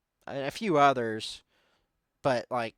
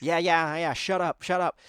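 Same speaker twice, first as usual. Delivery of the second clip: dismissive brush-off; 3 semitones higher, 4 dB louder than usual. Retold or imitated. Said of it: "And he's like".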